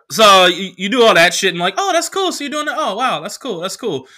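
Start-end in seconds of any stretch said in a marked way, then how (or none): 1.8-4.1 a higher, lightly voiced girl going oh wow; mock impressed girl. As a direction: play the girl faking interest, fading down. Girl reacting impressed to him.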